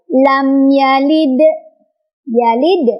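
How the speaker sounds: slow "lam yalid" with the final d bounced; qalqalah. Shown as a demonstration. Teacher demonstrates the echoing dal, bounced "yalid". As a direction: release the d of "yalid" with a small echo. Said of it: "qalqalah sughra atau qalqalah".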